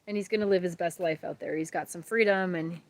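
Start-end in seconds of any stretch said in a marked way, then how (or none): 1.6-2.6 tearing up. Real, not acted. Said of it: "look at me, I'm gonna cry".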